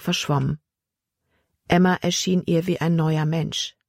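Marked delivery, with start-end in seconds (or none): none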